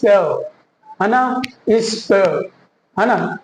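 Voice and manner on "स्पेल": इस drawn out into "is-peo", L hidden; slow "is-peo" for spell, tongue never landing on L; dark L demo. Shown as a demonstration. Teacher models spell for learners, dark L demo. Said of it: "वही technique पुराना वाला".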